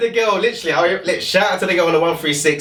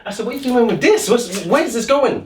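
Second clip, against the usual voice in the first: nervous reply; 9 semitones higher than usual. Retold or imitated. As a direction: sound worried and unsure. His scared reply.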